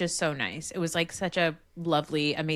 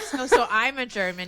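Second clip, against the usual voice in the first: louder, laughing Carlton line; awkward Carlton; 4 semitones higher, 5 dB louder than usual. Retold or imitated. Retelling Carlton dodging the word virgin. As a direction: act out the nervous sitcom boy. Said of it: "He's like".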